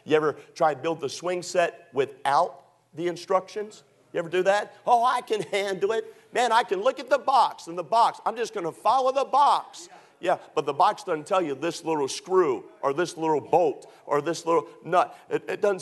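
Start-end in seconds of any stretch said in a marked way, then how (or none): 4.9-9.9 higher-pitched cocky bluster; playful know-it-all brag, pitched up; mock overconfidence. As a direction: imitate someone breezily sure of himself. Voices overconfident man skipping the instructions.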